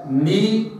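ني moved cleanly with kasra from the noon; correct ni. Shown as a demonstration. Teacher modelling the noon with kasra. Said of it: "وإنما".

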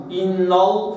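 إن with the noon thickened; heavy noon, wrong. Shown as a demonstration. Teacher showing the wrong heavy noon. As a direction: say إن ال with a darkened noon, as a mistake. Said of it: "فخمت النون المفتوحة".

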